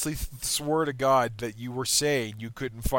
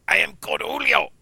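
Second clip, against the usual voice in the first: Butthead voice; 10 semitones higher, 7 dB louder than usual. Retold or imitated. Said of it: "it's got Butthead, and he says".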